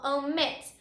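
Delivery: "omit" with MIT as the strongest syllable; stress on last syllable. Shown as a demonstration. Teacher repeats the example for students, "omit" stressed on MIT. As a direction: put the weight on MIT in "omit". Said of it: "that is the strongest syllable".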